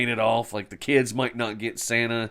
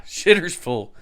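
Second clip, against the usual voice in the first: a touch louder, lightly voiced hick; 6 semitones higher, 6 dB louder, slower than usual. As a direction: echo the line with a hint of hick. Echoing the quote.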